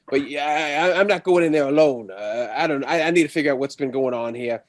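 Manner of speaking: put-on a nervous old-West lawman gripping his shotgun, quick; lawman character voice.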